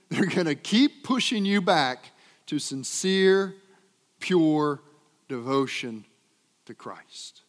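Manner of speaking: each word set apart, fading to a hush; words spaced out with pauses, last falling away; stressed slowly. Shown as a demonstration. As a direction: lean on every word, then let it drop. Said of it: "lean in on this".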